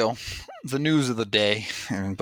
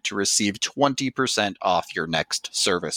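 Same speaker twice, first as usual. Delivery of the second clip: ad read. Acted. Podcast host reading a local electrician ad, upbeat. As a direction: sell it like a radio spot.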